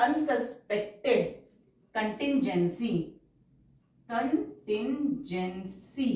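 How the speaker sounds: very slow, drawn-out dictation pace; stenography dictation, stretched syllables. Shown as a demonstration. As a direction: read it out word by word for shorthand. Dictated word.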